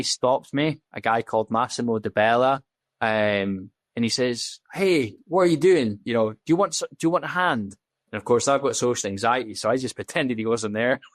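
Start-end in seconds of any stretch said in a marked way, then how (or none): 4.7-7.7 lightly imitated passer-by, pitched up; a touch of a higher-voiced, chatty approach; retold friendly offer, lifted in pitch; stranger offering help.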